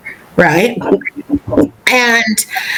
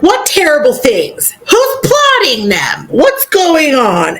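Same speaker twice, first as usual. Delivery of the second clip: higher, urgent mock questioning; Harry; 4 semitones higher than usual. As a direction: press for answers with rising urgency.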